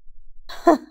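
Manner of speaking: short breathy scoff of a laugh; brief, voiceless mirthless chuckle. A narrator's reading. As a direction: huff out a bitter laugh. Bitter answer to father's threat.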